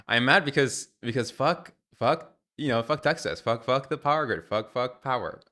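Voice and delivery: loud, high-pitched swearing outburst; furious rant. Real, not acted. Streamer venting at Texas and the power grid, a loud angry rant. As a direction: let the anger burst out in a loud tirade. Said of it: "I'm so mad".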